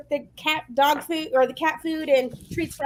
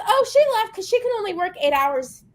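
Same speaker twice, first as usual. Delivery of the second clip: pitched-up clerk impression; higher mock clerk voice; 6 semitones higher than usual. Retelling the deli clerk's excuse, pitched-up mock voice. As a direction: mimic the clerk, high and airy. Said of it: "And she goes".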